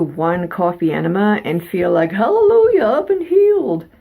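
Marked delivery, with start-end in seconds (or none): 2.1-3.9 high, loud revival-style joy; overjoyed exclamation. Pretend. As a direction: cry out like a healed believer. Mock miraculous cure exclamation.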